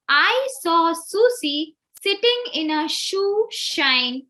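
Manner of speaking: slow, careful reading with every S and SH distinct; clear slow reading. Shown as a demonstration. Teacher reads the twister slowly as a model. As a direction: read the tongue twister slowly and crystal clear. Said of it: "Can you see how clear the speech is".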